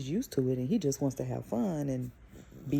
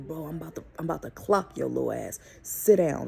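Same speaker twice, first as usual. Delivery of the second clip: loud scolding. Retold or imitated. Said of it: "I really had to get loud".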